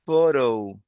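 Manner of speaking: "photo" with a long F onset. Shown as a demonstration. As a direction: stretch "photo" slowly, falling. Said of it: "La P H se pronuncia".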